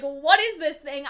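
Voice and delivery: slow, curious what is this thing; slow puzzled question. Retold or imitated. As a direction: ask it slowly, as if examining an object. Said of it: "as in, like".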